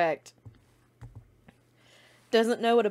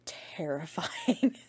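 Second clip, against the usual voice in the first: slow, breathy whispered terrifying; 3 semitones lower, 4 dB quieter, much slower than usual. Real, not acted. Describing scary Winifred art, slow spooky whisper.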